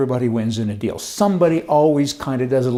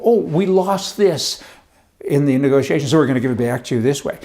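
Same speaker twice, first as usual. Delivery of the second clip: mock government excuse. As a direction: parody an official making excuses. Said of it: "they're compensating the people".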